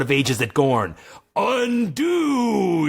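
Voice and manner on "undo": yell. Acted. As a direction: cast it with a ringing yell. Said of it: "yelled the sorcerer".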